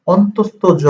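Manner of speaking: অন্তস্থ জ said fully, stressing অন্তস্থ; name it অন্তস্থ জ, not plain জ; correct pronunciation. Shown as a demonstration. Teacher to students correcting a letter name: অন্তস্থ জ. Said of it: "সঠিক উচ্চারণ হচ্ছে যে".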